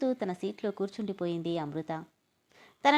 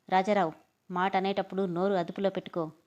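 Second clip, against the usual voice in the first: angry. Acted. Father warning Rajarao at dinner, angry. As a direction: warn him with a sharp name call. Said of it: "కోపంగా".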